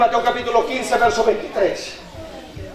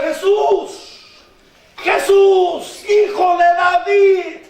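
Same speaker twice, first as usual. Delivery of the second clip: crying out; 6 semitones higher than usual. Acted. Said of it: "empieza a gritar". (clamor suplicante)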